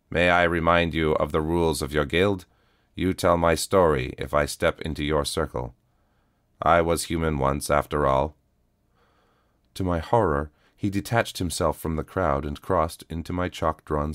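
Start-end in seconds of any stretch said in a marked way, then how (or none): 0.1-8.4 even, steady robotic calm; a worn cyborg, calm and level; flat cyborg voice. Acted. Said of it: "came a flat voice".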